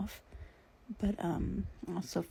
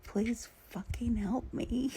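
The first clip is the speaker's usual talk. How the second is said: retold scream; 4 semitones higher, slower than usual. Daughter lifting her fallen dad, restrained retold scream. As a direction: plead it drawn out without shouting. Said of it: "I'm having to scream at him".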